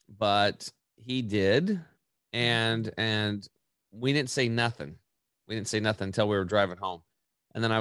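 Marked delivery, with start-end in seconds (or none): none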